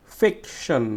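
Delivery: ফিকশন with a firm "fik"; stressed first syllable. Shown as a demonstration. Teacher showing students syllable stress, strong "fik" in ফিকশন. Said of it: "জোরে উচ্চারণ করব".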